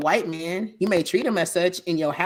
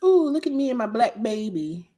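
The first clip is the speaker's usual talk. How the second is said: lightly mocking higher-pitched coo; mock showing off; 5 semitones higher than usual. Mocking a Caucasian woman adopting, lightly put-on higher voice. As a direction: parody a proud show-off, pitch lifted.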